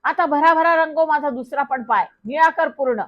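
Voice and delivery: put-on thrilled boy shouting with glee; joyful shout. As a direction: yell it out happily as paint sprays. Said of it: "आनंदात ओरडला".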